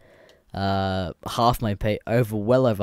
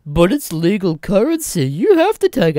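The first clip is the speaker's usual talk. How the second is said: mock insistent customer; 9 semitones higher, 9 dB louder than usual. Imitating insistent customer at shop.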